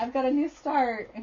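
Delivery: voice breaking, very high and loud. Introducing a new cross stitch start, your voice cracking. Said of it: "My voice is cracking".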